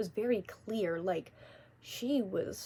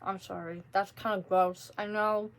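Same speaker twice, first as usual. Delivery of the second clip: mouth full. Real, not acted. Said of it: "I'm gonna talk with my mouth full".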